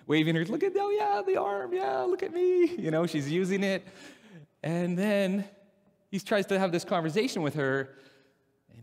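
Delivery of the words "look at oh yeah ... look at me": very high, thrilled voice; high delighted look at me; excited showing off. Retold or imitated. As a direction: squeal it like you're showing off a miracle. Lady showing off healed arm.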